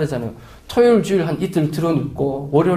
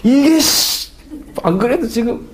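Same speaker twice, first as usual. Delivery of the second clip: irritated outburst; 7 semitones higher, slower than usual. Retold or imitated. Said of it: "억울함과 분노와 짜증이".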